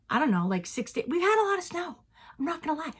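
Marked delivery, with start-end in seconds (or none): 2.4-2.9 soft unvoiced confiding whisper; whispered aside to viewers. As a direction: let them in on a secret.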